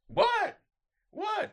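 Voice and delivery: high-pitched snapped question; acted irritated yelp; exasperated. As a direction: bark it at someone pestering you. Snapping at a persistent screamer.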